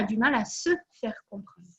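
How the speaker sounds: a soft unvoiced whisper; a hushed aside to the viewers, whispered. Real, not acted. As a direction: let it drop to a breath, confiding. Confiding difficulty to the audience.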